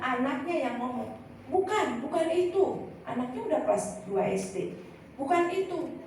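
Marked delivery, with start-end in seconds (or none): 1.5-2.9 put-on child protesting. Child voiced in a story. 5.1-6.0 put-on child protesting. Child voiced in a story.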